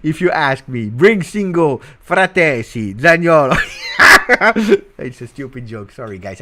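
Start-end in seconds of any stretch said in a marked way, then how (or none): 0.0-3.6 loud, high rallying shout; rowdy, building to a yell; boisterous joking. Real, not acted. Cracking up at own joke. 3.6-4.9 loud, high burst of laughter; real high-pitched guffaw; laughing at own joke. Real, not acted. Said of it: "I'm laughing at my own jokes".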